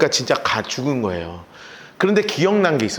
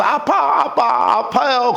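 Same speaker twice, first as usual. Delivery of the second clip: put-on child's whine; 7 semitones higher, much slower than usual. Child whining to father.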